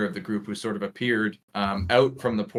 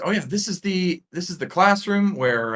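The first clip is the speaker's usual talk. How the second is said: higher-pitched guide voice; casual tour guide; 9 semitones higher, 5 dB louder than usual. Acted. Guide showing visitors the classroom, casual. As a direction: point out a room, breezily. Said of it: "which says".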